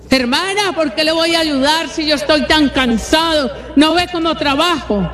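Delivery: a lightly voiced resentful husband; grumpy husband. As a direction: whine that you work too hard to help. Tired husband refusing to help.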